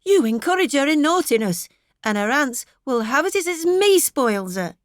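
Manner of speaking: mildly fretful wife; fretful complaint. A narrator's reading. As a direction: sulk at her husband. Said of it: "lymphatic fretfulness in her tone".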